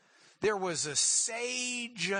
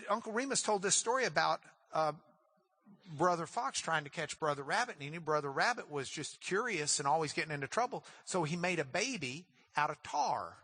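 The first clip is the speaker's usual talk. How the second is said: usual speaking voice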